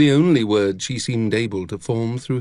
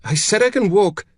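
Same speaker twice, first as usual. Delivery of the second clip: high, irritated insistence; sharp protest, building higher and louder; snapping; 8 semitones higher, 3 dB louder than usual. A narrator's reading. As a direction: snap it, refusing help. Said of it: "she snapped".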